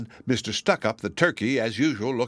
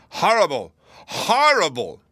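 much higher, louder shocked turkey; pompous turkey; 7 semitones higher, 5 dB louder than usual. A narrator's reading. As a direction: squawk it out in outrage. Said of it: "Mister Stuck Up the turkey".

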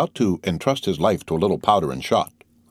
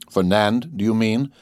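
lightly voiced dry, bitter irony on the name; 3 semitones higher, slower than usual. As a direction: throw the name back with mild bitterness. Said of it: "with bitter irony".

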